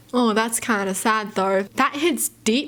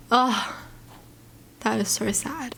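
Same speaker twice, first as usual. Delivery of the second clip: usual speaking voice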